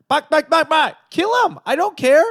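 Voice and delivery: loud, high-pitched shouted commands; imitated barked orders. Mobster ordering a hit over the phone, imitated shout.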